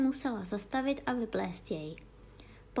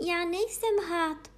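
higher, slow, wounded pride; a girl insulted, protesting; indignant little girl; offended; 7 semitones higher, slower than usual. A narrator's reading. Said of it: "řekla Alenka uraženě".

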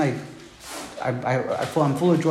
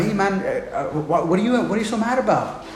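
God; 4 semitones higher than usual. Acted. Acts out God questioning Jonah.

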